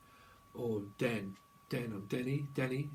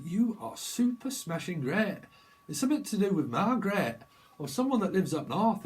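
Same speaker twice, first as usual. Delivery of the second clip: imitating a TV comic; 6 semitones higher, 5 dB louder than usual. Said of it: "Rock on Tommy used to be on British T V".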